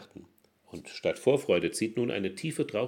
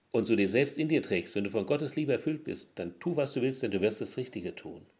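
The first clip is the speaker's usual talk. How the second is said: ordinary talk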